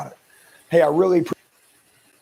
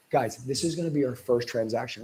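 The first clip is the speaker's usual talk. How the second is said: authoritative; 5 dB quieter than usual. Shown as a demonstration. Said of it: "talking to them like I'm the authority".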